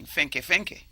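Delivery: a dismissive hum, then fenke, fenke; Jamaican Patois. Shown as a demonstration. Describing a weak man, dismissive Patois fenke. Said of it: "Or you say".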